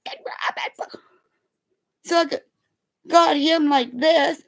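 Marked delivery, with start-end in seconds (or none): 0.0-1.0 hushed whisper of the same words; whispering the toddler's words. Retold or imitated. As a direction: breathe it out under a hand. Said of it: "trying to hold my kid's mouth".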